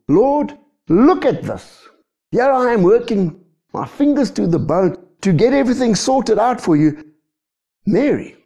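high, whiny grievance to the Lord; indignant complaint. Acted. Busy sister complaining to the Lord about Mary, indignant. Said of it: "See, get the attitude".

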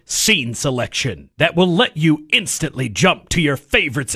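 hyped-up DVD feature announcer; mock promo voice. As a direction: sell a trivial feature as amazing. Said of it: "you say it in that voice".

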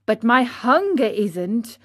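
usual speaking voice

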